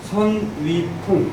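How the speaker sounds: measured drill recitation; syllable by syllable. Shown as a demonstration. Teacher drilling the hexagram names, syllable by syllable. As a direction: give every syllable its own beat. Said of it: "이렇게 있는 거예요".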